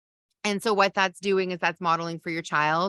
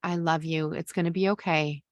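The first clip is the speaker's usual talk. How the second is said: calm validating. Shown as a demonstration. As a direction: say it gently, as comfort that lets the feeling stay. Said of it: "try that method with them".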